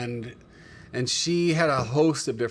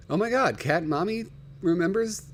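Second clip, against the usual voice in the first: surprised; 6 semitones higher than usual. Real, not acted. Viewer remembers old episode.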